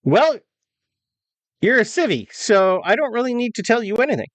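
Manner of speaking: high-pitched private brushing off a civilian; dismissive young soldier. Acted. Private refuses to answer a civilian, high dismissive voice. Game master plays private.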